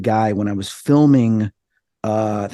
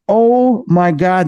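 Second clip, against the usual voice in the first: retold astonishment; 6 semitones higher, 4 dB louder, much slower than usual. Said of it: "I'm sitting there going".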